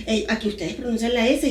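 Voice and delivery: put-on Costa Rican accent. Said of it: "me hablaba como una tica".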